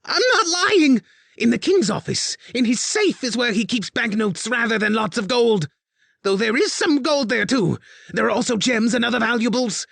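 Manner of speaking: high, loud frantic begging; panicked plea. A narrator's reading. Spy master begs Elise, panicked high plea. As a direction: beg for your life.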